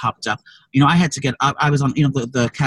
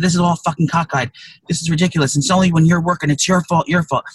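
retold yell; 3 semitones higher than usual. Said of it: "I had to yell at the man".

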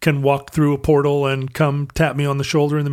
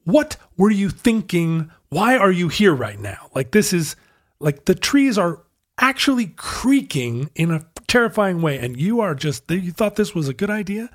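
scolding yourself; 5 semitones higher than usual. Retold or imitated. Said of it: "many times going".

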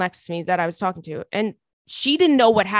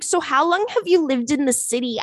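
put-on young girl voice; 5 semitones higher than usual.

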